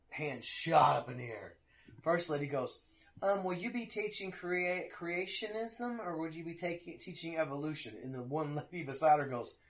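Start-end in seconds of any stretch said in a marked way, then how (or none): 3.2-7.9 mock hesitant parent. Parent asking teacher about creationism, hesitant. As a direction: lightly imitate a parent asking a touchy question. Parent's wary question, acted.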